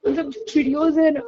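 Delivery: tearful. Real, not acted. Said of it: "तब से रो ही जा रही हूँ मैं".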